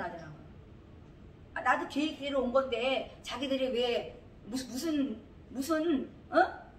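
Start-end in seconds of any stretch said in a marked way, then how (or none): 1.5-6.7 indignant protest. Real, not acted.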